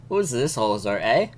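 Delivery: badly faked Canadian with rising "eh"; retry a light Canadian accent; half-hearted Canadian accent; attempted Canadian accent. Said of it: "how to do a Canadian accent".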